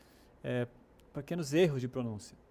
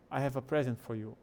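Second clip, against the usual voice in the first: "present" stressed on its first syllable, PREZ-ent; noun stress. Shown as a demonstration. Teacher gives a gift example, "present" stressed at the start. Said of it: "A ênfase tá no começo".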